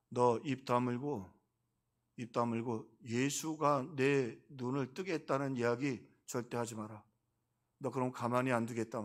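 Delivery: 느리고 나직하게 경고하는 흉내; 입막음하려는 듯 낮게 눌러 말하기. Retold or imitated. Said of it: "협박을 하는 거예요". (천천히 으르듯 협박하는 인용 투)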